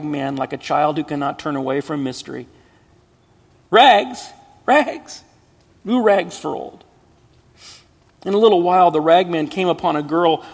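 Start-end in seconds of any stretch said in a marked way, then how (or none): 3.7-6.8 high, loud street cry; peddler's call. Acted. Ragman crying out to the city, loud and high.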